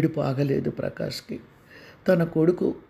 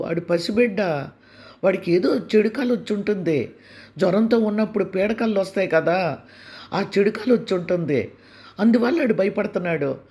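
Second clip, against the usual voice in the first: defensive stepmother; 5 semitones higher than usual. Acted. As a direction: brush off the husband's worry, acting innocent. Stepmother Durga covers up. (రక్షణాత్మకంగా మాట్లాడే సవతి తల్లి)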